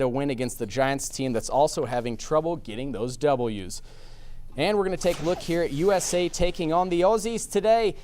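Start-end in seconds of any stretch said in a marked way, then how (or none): 4.6-7.9 put-on Australian accent. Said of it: "that's the best Australian accent I've got for you".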